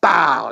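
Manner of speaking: loud mock punch noise; punch sound effect. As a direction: smack it out like a fist landing. Retelling a punch.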